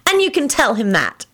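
high, emphatic last word; insist, brooking no argument; stubborn. A narrator's reading. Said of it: "declared stubbornly".

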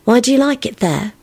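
high, small, timid question. A narrator's reading. Elizabeth asking Lupin about the forest, small high voice. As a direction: ask it in a little high voice. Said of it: "she asked in a small voice".

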